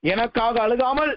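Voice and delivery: preacher lightly voicing God, tender and low; the Lord speaking. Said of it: "என்று ஆண்டவர் சொன்னார்".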